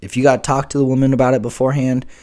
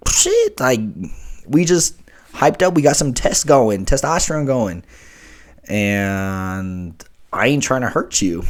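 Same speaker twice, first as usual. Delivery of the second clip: hyped-up excuse; 3 semitones higher, 3 dB louder, slower than usual. Retold or imitated. His hyped-up reply to partner.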